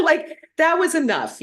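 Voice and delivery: real laughter breaking through; laughing. Real, not acted. Laughing at her own refusal.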